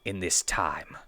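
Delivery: lightly voiced cold commander; menacing orders, measured; stern commander. Commander's speech to guards.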